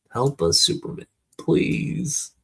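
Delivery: high cry for help, rising on the last word; pleading yell. Acted. Boy keeps yelling for the hero, pleading yell. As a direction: beg to be heard, pitch climbing. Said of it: "I've got to keep yelling".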